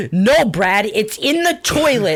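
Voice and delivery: mock insistent, pitch climbing high; exasperated mom. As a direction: imitate a mother urgently correcting her son. Retold mom insisting to her son.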